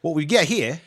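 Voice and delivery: lightly put-on Australian; Australian accent. Player giving the quote a second time, Australian accent. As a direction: repeat the line as an Australian. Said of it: "the accent is Australian".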